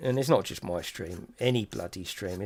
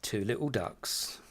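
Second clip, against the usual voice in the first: bingo caller. Acted. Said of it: "meant to be a bingo call".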